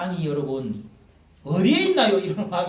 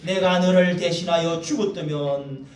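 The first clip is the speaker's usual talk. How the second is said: scripture reading; 2 semitones higher, 6 dB louder than usual. Acted. Preacher reading David's grief aloud to the congregation, solemn. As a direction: read the verse out like a lament.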